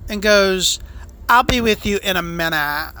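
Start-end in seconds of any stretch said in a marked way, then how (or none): 1.3-2.9 swishy fey voice. Retold or imitated. Waiter putting off waiting customers, swishy and fey. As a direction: draw it out in a fey, put-on voice. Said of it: "He didn't say it in a gay, fey voice".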